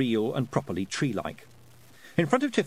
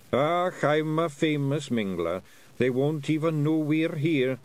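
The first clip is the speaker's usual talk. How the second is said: slow, lightly higher proud Scots pixie; boastful wee Feegle; 4 semitones higher, slower than usual. Acted. Willie bragging to Rob, slow lightly higher Scots. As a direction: brag like a daft clansman.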